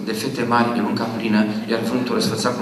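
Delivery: mumbling the verse alone in the bathroom; practising the poem half aloud; poem rehearsal. Retold or imitated. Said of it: "Și în baie singur".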